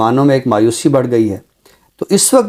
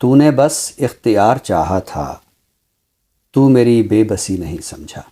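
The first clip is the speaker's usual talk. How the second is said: measured mushaira-style poem reading; ghazal recitation. Acted. (शायराना अंदाज़ में ग़ज़ल पढ़ना)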